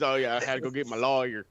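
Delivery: lightly imitated Southern accent. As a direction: quote it with a hint of a Southern twang. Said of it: "making fun of damn Southern accents".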